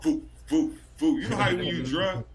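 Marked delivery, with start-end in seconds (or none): 0.0-1.2 mock woozy sound. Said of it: "I just remember this sound".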